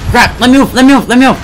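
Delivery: high, loud, frantic repeats; urgent cry to get free; panicked pleading. Acted. Player stuck in the volcano, panicked.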